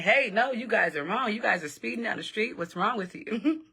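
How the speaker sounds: imitated indignant bystander. Witness telling the speeding driver off, indignant.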